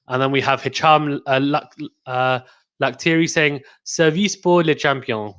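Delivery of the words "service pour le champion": slow French accent on Service pour le champion. Shown as a demonstration. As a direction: read it out slowly in a French accent. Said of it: "I tried to say that in, in a French accent".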